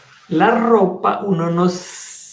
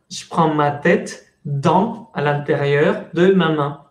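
slow demo. Shown as a demonstration. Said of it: "yo hago esto".

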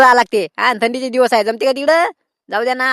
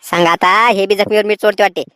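put-on lower, grumbling old man; 5 semitones lower than usual. Old trader grumbles to the noisy farmer at the door, low and annoyed. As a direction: mutter low like an old man who has had enough.

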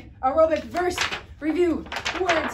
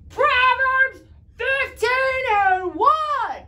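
loud, slow, drawn-out call, higher; really loud; 8 semitones higher, 6 dB louder, much slower than usual. Shown as a demonstration. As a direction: belt the verse reference out to the TV. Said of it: "Say that really, really loud".

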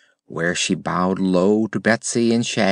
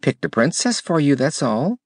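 cheerfully; 7 semitones higher than usual. A narrator's reading. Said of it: "replied Betsy cheerfully".

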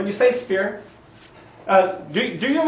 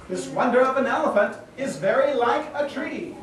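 line demo. Shown as a demonstration. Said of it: "you dropped your character".

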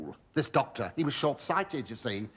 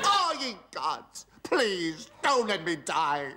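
hammed-up pleading; 3 semitones higher than usual. Pleading not to die.

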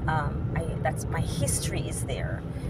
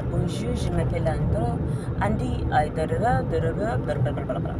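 playful French. Pretend. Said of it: "I will even play with a little".

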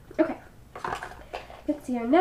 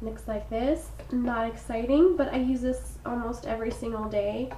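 stuffy froggy voice. Real, not acted. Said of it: "I sound so sick and horrible".

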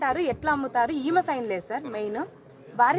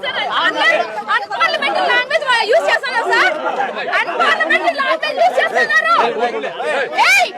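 real angry yelling, pitched way up and loud; furious shout; 9 semitones higher, 5 dB louder than usual. Real, not acted. Protester yelling at officials in the office, furious shout. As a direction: shout at them in real outrage.

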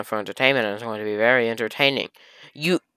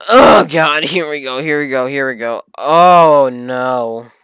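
dreading; 3 semitones higher, 8 dB louder, slower than usual. Real, not acted. Dread before scene.

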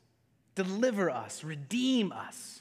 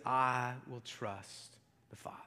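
soft whispered resolve; whispered trust; 7 semitones lower, 8 dB quieter than usual. Retold or imitated. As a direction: breathe it as a quiet vow.

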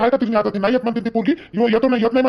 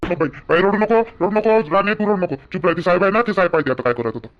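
comforting father; 3 semitones lower than usual. Acted. Father tells his weeping daughter not to cry, tender. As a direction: soothe her tears gently.

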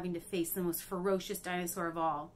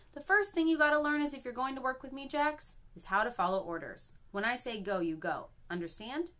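scolding; 6 semitones higher than usual. Acted. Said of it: "I just got yelled at".

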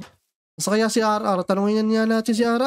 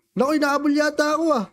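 kunwaring takot; 6 semitones higher than usual. Pretend. Hinahabol ng bantay sa laro.

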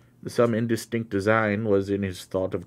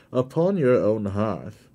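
solemn invocation; 4 dB louder than usual. Acted. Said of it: "in an attitude of invocation".

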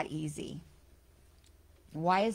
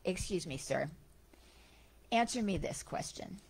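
very calmly; 5 dB quieter than usual. Retold or imitated. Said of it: "very calmly said to him".

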